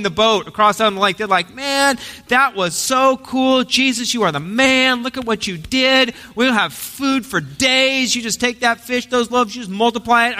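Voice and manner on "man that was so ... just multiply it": excited disciples. Pretend. Preacher voicing disciples in awe of Jesus, excited. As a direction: gush over Jesus like starstruck fans.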